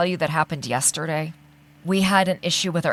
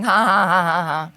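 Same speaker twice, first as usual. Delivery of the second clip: mock laughter.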